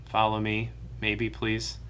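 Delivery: soft, hesitant "Follow me, maybe, please."; timid polite asking; tentative request. Shown as a demonstration. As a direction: ask "Follow me" meekly, as a kind offer.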